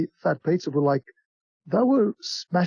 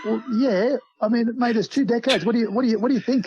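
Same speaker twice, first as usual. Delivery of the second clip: raised, higher exasperated comeback; exasperated retort; 6 semitones higher than usual. Retold or imitated. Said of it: "I said".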